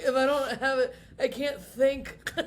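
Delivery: laughing mock-desperate kid; laughing whine. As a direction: stretch it out through laughter. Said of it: "where I'm like".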